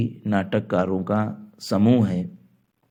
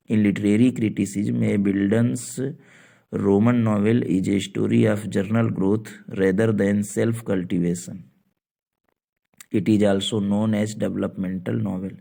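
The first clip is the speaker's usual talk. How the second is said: English definition read very slowly; slow dictation; much slower than usual. Shown as a demonstration. Teacher dictates the English definition slowly to students. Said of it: "reads definition slowly".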